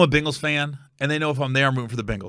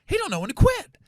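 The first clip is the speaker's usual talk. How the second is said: fed-up aside; 11 semitones higher than usual. Retold or imitated. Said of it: "And I went".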